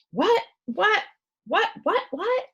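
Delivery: put-on a fussy old doctor bustling in; excited doctor rattling off whats; bumbling doctor.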